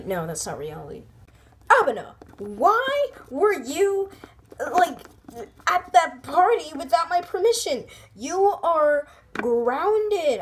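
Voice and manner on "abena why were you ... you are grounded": slow, drawn-out grounding; stern mom. Acted. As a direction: lay down the law like a mom. Mom scolding daughter for party.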